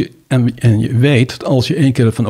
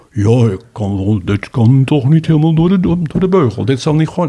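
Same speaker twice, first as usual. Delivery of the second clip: silly, funny put-on old professor voice. Speaker imitating old retired professors judging a case, in a funny old-professor voice. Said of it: "omdat u net zo'n gekke stem opzet".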